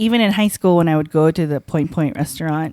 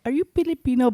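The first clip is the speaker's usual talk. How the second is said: higher-pitched Filipino-accented question; 5 semitones higher, faster than usual. Shown as a demonstration. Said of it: "I spoke in an accent".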